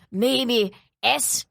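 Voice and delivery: lightly voiced Scottish shopkeeper; put-on Scottish accent, halting; bad Scottish accent. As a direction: imitate an unhelpful Scottish clerk. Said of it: "That was a bad accent".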